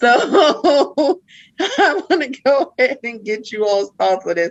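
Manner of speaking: words broken up by laughing. Asking the others for their thoughts, laughing while talking. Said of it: "I'm sorry for laughing".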